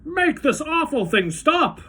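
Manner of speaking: high, loud, slow demand; angry order. A narrator's reading. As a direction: order it stopped, furious. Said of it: "ordered Mister T V".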